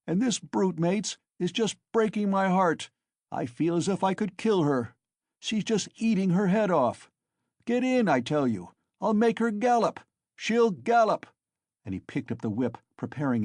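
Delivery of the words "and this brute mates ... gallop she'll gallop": high, loud angry rant; drunken rage. Acted. Mikolka raging at his mare before the crowd, loud and high. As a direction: work yourself up against the mare.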